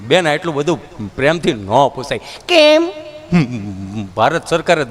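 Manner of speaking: low simple villager; dull villager. Retold or imitated. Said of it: "villager answer".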